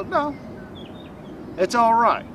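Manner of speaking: a gentle pep talk to yourself after a goof; gentle, positive and firm. Shown as a demonstration. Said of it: "very gently, very positively, very firmly, go".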